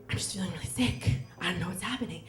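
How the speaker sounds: mild mock of a carsick host mom; sick, weak voice. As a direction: let it sag like you're about to be ill. Host mom feels sick in car.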